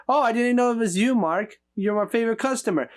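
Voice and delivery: quick, bright mock shopkeeper greeting; imitating the florist. Mocking the florist who greets Mark at the shop, quick and bright. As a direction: rattle it off like an overfriendly clerk. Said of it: "How can you not recognize this Mark?".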